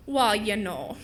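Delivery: a hint of Minnesotan; Minnesota accent. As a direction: ease into a drawn-out Minnesota accent. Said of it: "the accent from the show".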